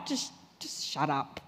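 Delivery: low, soft mock brush-off; dismissive. Workmate silencing a believer, low and dismissive. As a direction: drop the voice to shut someone down.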